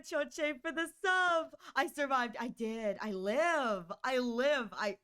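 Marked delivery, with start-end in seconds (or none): 4.0-5.0 burp breaking the words; talking while burping. Real, not acted. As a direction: speak through a burp. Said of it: "I'm burping into the microphone".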